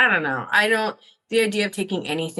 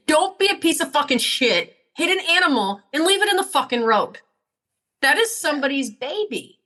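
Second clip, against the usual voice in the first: raised-pitch telling-off; indignant scolding; 5 semitones higher than usual. Acted. Woman berates whoever left the cat in the road, indignant. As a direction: scold an absent driver, higher but not shouted.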